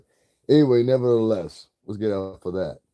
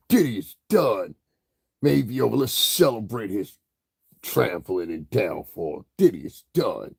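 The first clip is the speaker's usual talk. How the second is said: mocking gossip opener; 2 semitones higher than usual. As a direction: lightly parody the gloating intros. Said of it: "That's how they say it".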